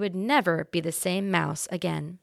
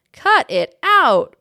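grumbled; 8 semitones higher, 10 dB louder, much slower than usual. A narrator's reading. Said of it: "grumbled the man".

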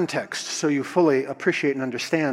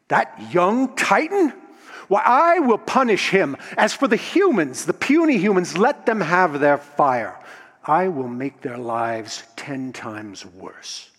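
angry Zeus. Acted. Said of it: "he was angry".

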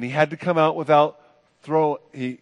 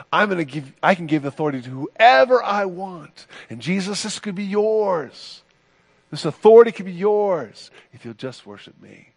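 emphatic tempting offer, pitched higher; Satan; 4 semitones higher, 3 dB louder than usual. Acted. Satan tempting Jesus with power, emphatically. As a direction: dangle the offer with raised pitch.

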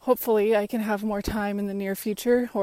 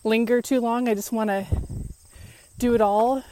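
winded, talking mid-run; breathless between words while jogging; out of breath. Real, not acted. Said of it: "sorry, I'm out of breath because I just".

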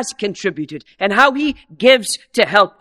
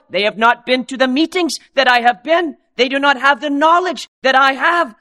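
a hint of a proud, self-satisfied Pharisee, pitched up; smug Pharisee; 6 semitones higher than usual. Preacher voicing the Pharisee's boast, lightly smug. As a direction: boast like a man sure he is better.

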